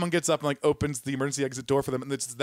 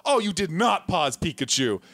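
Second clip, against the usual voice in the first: higher, louder mock outrage; outraged exclamation; 5 semitones higher, 4 dB louder than usual. Moviegoer storming in, outraged the film was paused. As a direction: play the indignant moviegoer, a bit slow. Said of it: "the guy just walks in and goes".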